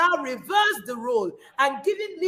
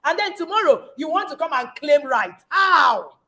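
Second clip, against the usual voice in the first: indignant. Acted. Indignant preaching against men.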